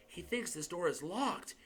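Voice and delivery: whispered. Acted. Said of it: "Harry whispered".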